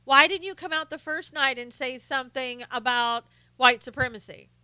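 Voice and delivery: ape a whiny reporter lightly; mock reporter. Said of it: "all they had to say was".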